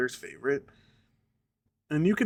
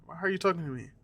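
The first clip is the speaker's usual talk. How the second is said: mock scream; 4 semitones higher, faster than usual. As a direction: imitate a kid's yelling without the volume. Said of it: "the Indian kid starts screaming".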